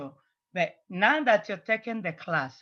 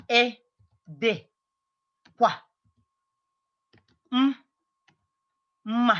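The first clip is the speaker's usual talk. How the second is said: "Ị dịkwa m-, mma" broken into slow pieces with long pauses; sonido por sonido; much slower than usual. Shown as a demonstration. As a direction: spell out "Ị dịkwa m-, mma" by sound, holding the m apart. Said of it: "how I'm pronouncing all these letters".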